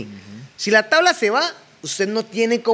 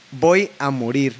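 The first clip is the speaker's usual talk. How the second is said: determined; 5 semitones lower, slower than usual. Retold or imitated. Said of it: "Es donde digo".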